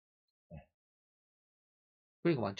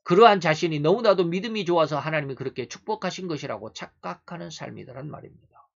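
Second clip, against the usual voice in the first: raised, emphatic sermon voice; forceful preaching; 5 semitones higher, 10 dB louder than usual. Real, not acted. Preacher rebuking self-satisfied believers, forceful preaching. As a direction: press the point home loudly from the pulpit.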